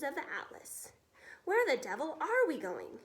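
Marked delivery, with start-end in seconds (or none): 1.4-3.0 a touch louder, alarmed officer; crying out. Acted. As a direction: call out in a mild panic. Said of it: "he cried".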